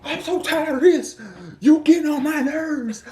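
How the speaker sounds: high, whiny mocking voice of his girlfriend; mock whiny crying girlfriend. Boyfriend mimicking his upset girlfriend, high and whiny. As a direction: whine it like she's about to cry. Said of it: "that's when the waterworks come".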